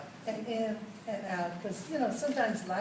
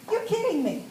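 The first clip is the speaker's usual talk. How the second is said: high, loud disbelief; can't believe she got it; surprised; 9 semitones higher, 6 dB louder than usual. Retold or imitated. Telling her neighbor, high and loud in disbelief.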